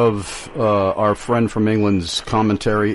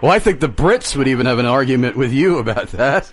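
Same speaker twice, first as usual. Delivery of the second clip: laughing; 2 semitones higher, faster than usual. Real, not acted. Host answers joke, still laughing.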